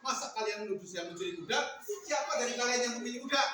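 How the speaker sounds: acted noisy squabble; mock-indignant quarrelling voices; bickering. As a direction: argue over each other's accusations. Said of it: "Mereka ribut, bertengkar".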